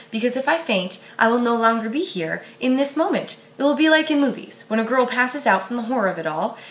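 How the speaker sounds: put-on steady read-aloud of a teen novel; story narration. A narrator's reading. Librarian reading a novel passage to students, story narration.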